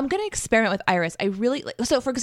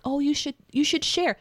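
preachy mom; 8 semitones higher than usual. Pretend. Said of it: "instead of being like".

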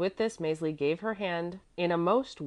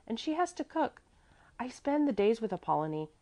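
put-on high little-girl chatter; child explaining; 9 semitones higher than usual. A narrator's reading. Little girl explains running away to gentleman, high chatter. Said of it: "Mäzli began to explain".

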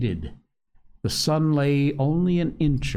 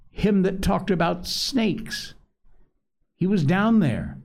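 frightened; 7 semitones higher than usual. A narrator's reading. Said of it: "gasping for breath".

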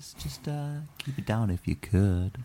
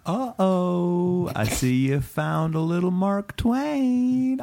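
shopkeeper voice; 6 semitones higher than usual. Acted. Shopkeeper spots the sale.

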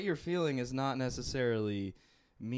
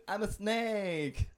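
snake voice; 10 semitones higher, 6 dB louder, much slower than usual. Pretend. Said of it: "a snake's words".

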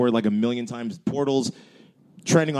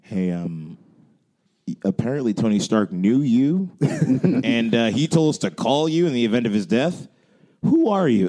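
imitating caller; 3 semitones lower than usual. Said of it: "getting that phone call and being like".

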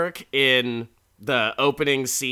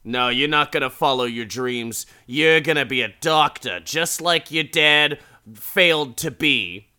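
nagging mom; 6 dB louder than usual. Retold or imitated. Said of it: "his mom is such an asshole".

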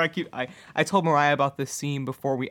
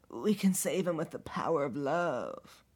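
slow, drawn-out, sappy mockery; hammed-up, syrupy sincerity; mock earnest quote; 3 semitones higher, 4 dB quieter, slower than usual. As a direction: stretch it out like a cheesy hero. Mocking quote of a show's characters.

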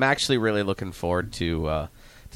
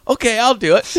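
high, loud squeal breaking into laughter; mock giving-in, laughing; 14 semitones higher, 10 dB louder, faster than usual. Coach imitating George finally agreeing, laughing high voice. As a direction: cave in on a high voice, cracking up.

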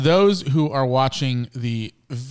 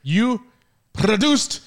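drawn-out tease; 10 semitones higher, 3 dB louder, much slower than usual. Pretend. Teasing her, drawn out.

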